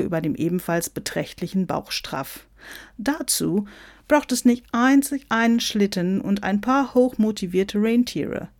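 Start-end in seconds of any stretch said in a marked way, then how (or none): 3.0-8.5 lightly voiced higher, showy Santa; self-important American Santa. Santa lectures on sleigh and reindeer, self-important. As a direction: lecture the rival, pitched a little up.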